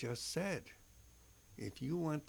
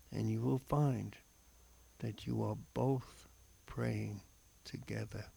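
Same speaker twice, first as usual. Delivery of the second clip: slow, solemn reflection read aloud; devotional reading. Acted. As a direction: read it like a heartfelt homily. Reads a scripture reflection.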